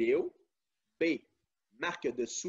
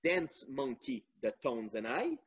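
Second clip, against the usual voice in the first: English title in a convincing English accent; strong English accent. Real, not acted. Quiz host reading song choices to listeners, strong English accent. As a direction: say the names with good English pronunciation. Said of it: "qui a un fort accent anglais qui est très bon".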